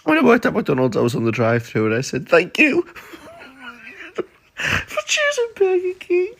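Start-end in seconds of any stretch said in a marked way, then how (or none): 2.3-6.3 laughing. Retold or imitated. Retelling drive-thru slip.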